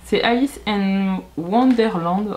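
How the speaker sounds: English title said with a strong French accent: Alice in Wonderland. Real, not acted. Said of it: "désolée pour mon accent anglais". (titre anglais avec un fort accent français)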